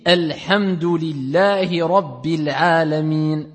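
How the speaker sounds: "Alhamdulillahi Rabbil Alamin" slowly, opening on a clear short A; slow recitation. Shown as a demonstration. Teacher to students, slowly reciting "Alhamdulillahi Rabbil Alamin" with an opening A. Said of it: "Avec ici al-fatha".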